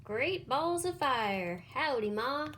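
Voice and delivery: hearty little howdy; baby goose. Acted. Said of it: "and said".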